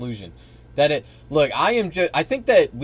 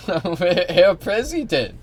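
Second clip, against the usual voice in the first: put-on higher, louder, drawn-out German accent; mock German accent; 7 semitones higher, 6 dB louder, much slower than usual. German chancellor addressing Trump, exaggerated mock German accent. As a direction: stretch it out in a hammed-up German accent. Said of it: "your German accent sucks".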